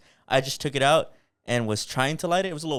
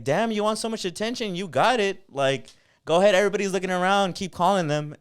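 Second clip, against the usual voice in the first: retold trash talk; 7 semitones higher than usual. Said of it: "now she's talking shit back".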